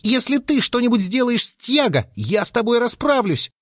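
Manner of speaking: high thin voice, fiercely cross; a small creature threatening with all its might; tiny but furious threat; thin angry voice. A narrator's reading. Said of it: "раздался тонкий, но страшно сердитый голос".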